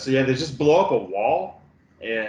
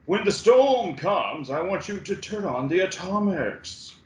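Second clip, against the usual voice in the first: Kyle MacLachlan impression; 6 semitones higher than usual. Hero gives battle orders before the storm, imitated in a high declaiming voice. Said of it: "and Kyle MacLachlan says".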